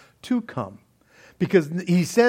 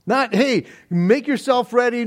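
higher-pitched, casual imagined quote; mock conditional invitation; 5 semitones higher than usual. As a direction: toss it out as the wrong invitation. Voices the invitation not being given.

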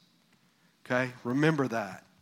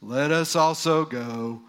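slow, lower, gloomy donkey drone; Eeyore voice; 4 semitones lower, slower than usual. Acted. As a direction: moan it like a sad, gloomy Eeyore. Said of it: "now I'm gonna use my best Eeyore voice".

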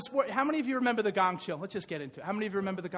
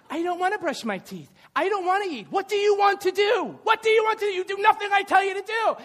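higher, louder frustrated scolding; exasperated parent; 10 semitones higher, 6 dB louder than usual. Retold or imitated. Father retelling his son refusing to brush his teeth, exasperated shout. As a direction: vent at a child who won't listen. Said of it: "he was the gongismas king today".

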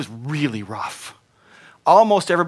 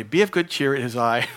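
amused. Retold or imitated. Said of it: "it just seems funny".

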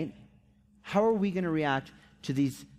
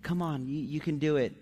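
softer, hesitant acted reassurance; encouraging; 4 dB quieter than usual. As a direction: gently coax a discouraged friend. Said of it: "others would come and say".

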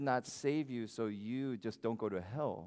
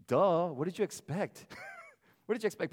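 impatient duh; 5 semitones higher, 4 dB louder than usual. Retold or imitated. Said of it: "no patience".

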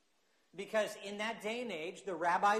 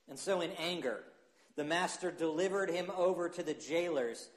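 measured, earnest Bible reading; scripture reading. Acted. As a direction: read the passage to the standing church. Pastor reads Matthew passage aloud.

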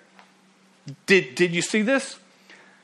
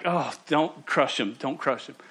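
worried plea; 2 semitones lower, 6 dB quieter than usual. Acted. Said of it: "you were worried about your friend".

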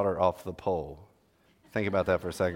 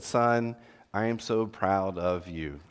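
tender father; 3 semitones lower, much slower than usual. Retold or imitated. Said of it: "He said".

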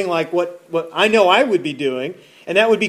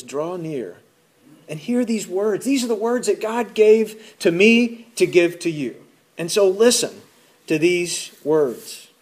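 gentle Joshua. Retold or imitated. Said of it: "And so Joshua says".

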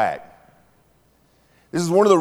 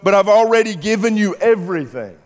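God's voice, high and louder, exasperated; 9 semitones higher, 5 dB louder than usual. Retold or imitated. God answering demanding people, exasperated. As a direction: plead like a weary father. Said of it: "he thinks to himself".

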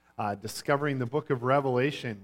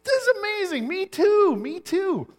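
very high, loud, hammed-up elation; overjoyed amazement; 6 dB louder than usual. Passerby thrilled that the denominations match, overjoyed. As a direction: burst out with escalating delight. Acted mounting delight in joke.

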